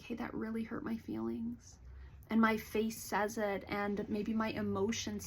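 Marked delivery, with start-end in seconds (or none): 0.0-1.8 gentle, softer voice with a little heart hurt. Shown as a demonstration. Therapist modeling telling a friend they were hurt, softly. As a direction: say it softly, letting the hurt show. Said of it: "I have a softness in my voice".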